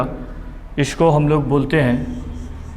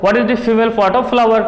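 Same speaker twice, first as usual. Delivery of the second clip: slow dictation; 4 semitones higher, much slower than usual. Shown as a demonstration. Dictating model exam question.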